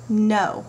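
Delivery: "No" flat and final, falling; firm final no. Shown as a demonstration. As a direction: say "No" with a full stop. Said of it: "a period at the end of the word no".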